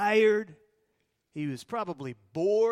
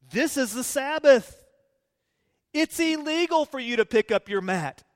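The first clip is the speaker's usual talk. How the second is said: stern rebuke; 5 semitones higher, 4 dB louder than usual. Pretend. Jews scolding healed man.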